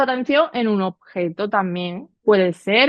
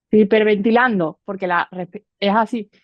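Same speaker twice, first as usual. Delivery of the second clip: hyperventilating. Shown as a demonstration. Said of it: "si yo estoy así, lo podéis probar ahora".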